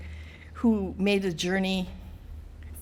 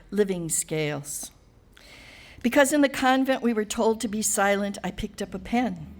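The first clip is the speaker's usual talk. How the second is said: incantatory recital, each line starting raised and settling down; poetry reading. Acted. Poet telling an audience who she is, measured litany-like recital. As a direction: recite it as a litany, pausing after each stanza. Reads own poem to audience.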